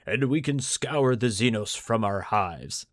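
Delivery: pompous governor. Acted. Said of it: "pompous as he is".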